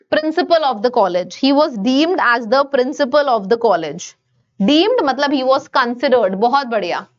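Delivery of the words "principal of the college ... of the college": slow dictation. Shown as a demonstration. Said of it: "reads example sentence slowly".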